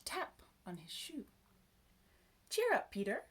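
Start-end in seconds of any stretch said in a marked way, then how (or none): 2.5-3.2 bright lift, higher pitch; cheering up. A narrator's reading. Tiny old man to crying Peter, cheering him up. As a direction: encourage a tearful child, higher. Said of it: "said a voice".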